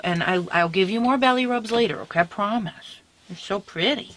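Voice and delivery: tender coaxing. Real, not acted. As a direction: gently reason with a beloved dog. Coaxing her dog onto bed.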